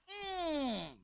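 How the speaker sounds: high, soft sulky hum; acted grumpy wordless grunt of displeasure; sullen "hmm". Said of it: "kita lihat ekspresi dari Kain".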